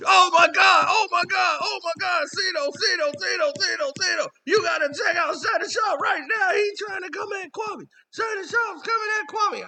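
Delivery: high, loud, rapid-fire mock panic; frantic excited fans. Fans alerting him to the video, frantic high-pitched imitation. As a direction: squeal it in a breathless rush of repeats. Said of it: "People's like".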